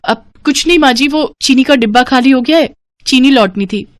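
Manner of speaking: lightly voiced dutiful daughter-in-law; meek daughter-in-law. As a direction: hastily explain to your mother-in-law. Daughter-in-law answers mother-in-law.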